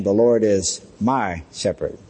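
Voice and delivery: slight pause before a weighted MY; stress on MY. Retold or imitated. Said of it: "She emphasized that word "my".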